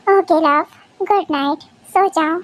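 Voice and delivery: low, soothing bedtime voice; tender goodnight. Acted. Husband sending his wife back to sleep, low and tender. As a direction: ease your partner gently towards sleep.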